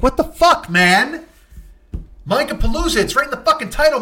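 high, loud indignant outburst; comic fury at being ditched; outraged. Real, not acted. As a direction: rant like you've been wronged.

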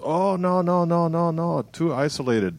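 high, rattled-off run of mock noes; dismissive refusal. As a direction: imitate an agent waving the idea away. Acts out booking agent refusing Tasmania gig.

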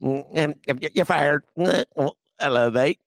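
put-on halting, bungled South African accent; attempted South African accent. Guest imitating Musk firing someone, wobbly South African accent. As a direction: try a South African accent, slipping toward Australian. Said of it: "like, South African accent".

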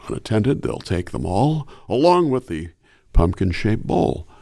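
Adam West Batman. Acted. Batman giving kids Halloween tips, measured and earnest. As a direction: deliver Halloween safety tips like the old TV Batman. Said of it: "Adam West as Batman".

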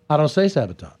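lightly mannered star impression; Bill Shatner. Star correcting his director's pronunciation, mannered. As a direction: insist on it as the star. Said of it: "to do Bill Shatner".

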